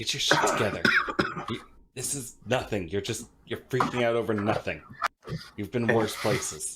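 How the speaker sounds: muttered under the breath. Pacing in a sitting room by the fire, a character is muttering to himself. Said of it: "someone sees a man pacing and just muttering to himself".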